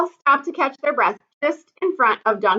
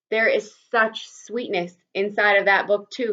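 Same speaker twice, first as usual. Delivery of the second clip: thoughtfully. Acted. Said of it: "he said, thoughtfully".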